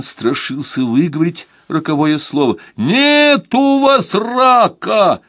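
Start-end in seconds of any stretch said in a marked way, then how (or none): 2.8-5.2 high, slow, far-off voice; a voice down a long phone line; distant voice on the phone. Acted. Doctor reassures Anuchin from far away, high and slow. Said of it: "сказал далёкий Дранков".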